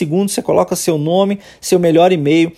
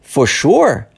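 mildly surprised. Shown as a demonstration. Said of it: "meio surpreso".

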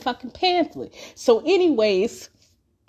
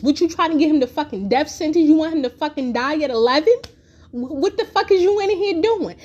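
fast, heated, rising tirade; furious scolding mom; 4 semitones higher than usual. Retold or imitated. Mother tearing into her kid in front of friends, fast and heated. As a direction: rattle it off like an enraged mother.

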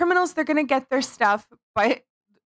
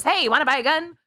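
bad Mexican accent; 6 semitones higher, faster than usual. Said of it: "That's not a Mexican accent".

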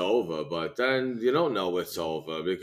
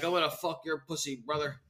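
Hulk Hogan impression; 6 semitones higher, 7 dB quieter than usual. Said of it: "he was like".

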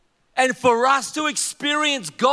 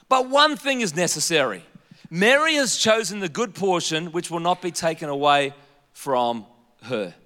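smiling Jesus; 4 semitones lower than usual. Retold or imitated. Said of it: "read this as if Jesus is smiling".

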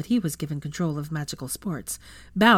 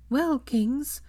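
conciliatory; 9 semitones higher than usual. A narrator's reading. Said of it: "in a conciliatory fashion".

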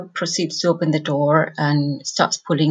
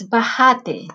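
"Bájate" with the second a held and stressed, baháte; Medellín-style "Bájate", stress on the final syllable's a; 4 semitones higher than usual. Shown as a demonstration. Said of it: "with a stress on the second A".

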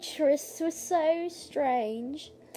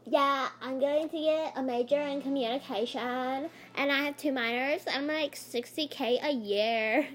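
mocking imitation. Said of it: "he was mocking her".

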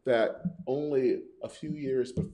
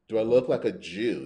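a touch of contempt, a bit louder; spat retort; 5 dB louder than usual. Acted. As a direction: snap it back with mild scorn. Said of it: "he spat".

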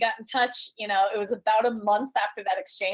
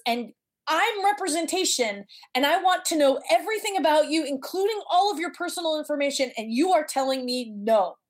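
lightly voiced agent, raised and pressing; insistent agent; 6 semitones higher than usual. Agent pressing the shy actress, a light insistent voice. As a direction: press her like a disbelieving agent.

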